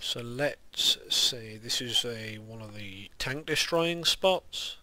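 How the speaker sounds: lisping on the s sounds; soft lisped s, slow. Real, not acted. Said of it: "sorry if you can hear my lisp".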